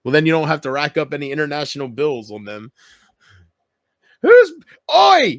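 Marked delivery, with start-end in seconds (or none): 4.2-5.4 loud, high Australian shout; Australian yell. Retold or imitated. Quoting a Simpsons episode, loud Australian yell. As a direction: bark it like an angry Aussie. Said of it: "Reminds me of the Simpsons episode".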